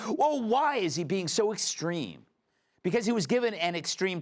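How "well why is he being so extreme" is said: high-pitched mock-surprised question; put-on dismay, pitched up; mock shock. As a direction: imitate shocked, surprised political opponents. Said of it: "the Dems are shocked and surprised".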